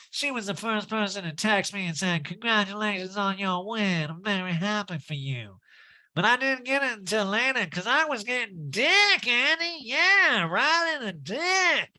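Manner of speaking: pinched, smug put-on voice; mock boastful high voice, building; Erica Jane. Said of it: "that Erica Jane imitation".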